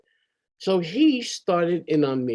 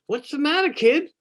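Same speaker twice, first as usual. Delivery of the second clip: father's high, louder questioning call; concerned father; 12 semitones higher, 3 dB louder than usual. Retold or imitated. Father to his crying kid, high-pitched concern. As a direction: imitate a dad's startled concern, pitched up.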